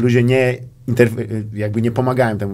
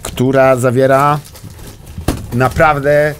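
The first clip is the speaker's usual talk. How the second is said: showman build-up; 5 dB louder than usual. Pretend. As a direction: present it like a TV host. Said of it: "moi drodzy". (uroczyste zapowiadanie, wolno i głośniej)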